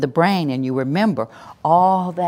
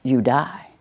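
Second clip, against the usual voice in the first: aggressive; slower than usual. Shown as a demonstration. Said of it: "An aggressive voice says at the end".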